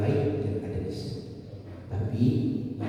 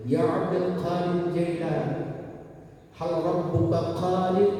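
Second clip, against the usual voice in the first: higher, slow pleading question; drunk man asking; 6 semitones higher, slower than usual. Acted. Drunk man asks the sheikh, higher and slow. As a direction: plead with the sheikh, drawn out and sung.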